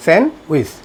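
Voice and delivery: স্যান্ডউইচ as "sen-wis", silent d; correct pronunciation. Shown as a demonstration. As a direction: drop the d from স্যান্ডউইচ. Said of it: "সঠিক উচ্চারণ হলো এটা".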